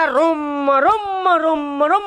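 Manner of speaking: drawn-out repeated "rum" thumps; vocal sound effect of blows; imitated thumping blows. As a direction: mimic a beating with rolling thuds. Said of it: "ಹೊಡ್ಯಾಕತ್ತಿದ್ಲು ನೋಡ".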